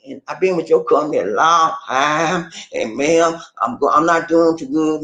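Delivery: meek, pleading caller; humble, sorry-for-myself plea. Shown as a demonstration. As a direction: beg politely, keep your voice low and humble. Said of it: "you come down on the low end".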